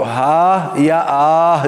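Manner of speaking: slow, stretched ہا and آہ as yawn sounds; yawning haa and aah. Shown as a demonstration. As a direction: draw out ہا and آہ like a yawn. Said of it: "جیسی آواز نہ نکالے". (ہا اور آہ کی لمبی جمائی والی آواز)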